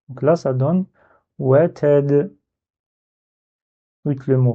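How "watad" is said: WATAD with the final d released in a rebound; bouncing final d. Shown as a demonstration. Teacher showing how the word reads, echoing final d. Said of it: "avec un rebond qu'on avait dit".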